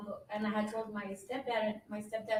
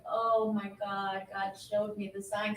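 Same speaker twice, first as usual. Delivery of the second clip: slow, louder retold amazement; awed realisation; 4 dB louder, slower than usual. Wife hearing mom's news of his release, awed. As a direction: draw it out in dawning wonder. Retells realising the sign arrived.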